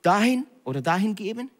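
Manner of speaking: gently sing-song the call of God; God speaking. Retold or imitated. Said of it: "spricht Gott mit dir und sagt".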